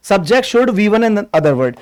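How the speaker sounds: very slow, each word spaced out; slow dictation. Shown as a demonstration. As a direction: spell out the formula slowly for notes. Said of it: "slow dictation of structure". (धीरे-धीरे बोलकर लिखवाना)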